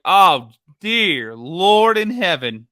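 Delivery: loud, slow, hammed-up dismay; exasperated dismay. Host acting a website visitor's reaction, hammed-up exasperation. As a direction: draw it out like an appalled plea to heaven. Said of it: "You're just like".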